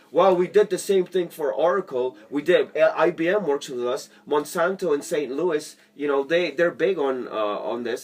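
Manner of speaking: a hint of a bragging sales pitch; mock pushy salesman. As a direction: push the client list at him like an overeager rep. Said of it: "You guys don't just go at him saying".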